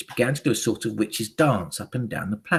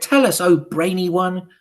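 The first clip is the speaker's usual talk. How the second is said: high, loud, pleading witches; clamouring crowd plea; witches crying out; 8 semitones higher, 6 dB louder than usual. A narrator's reading. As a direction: implore the leader eagerly. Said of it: "they cried".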